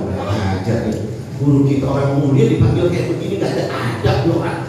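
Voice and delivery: a touch of mock outrage, laughing through it; half-laughing scolding; indignant disciples. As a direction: scoff at the rude drunk.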